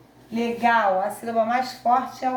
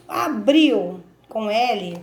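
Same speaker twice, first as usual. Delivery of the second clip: slow dictation; 4 dB louder, much slower than usual. Shown as a demonstration. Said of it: "O que que é abril com L?".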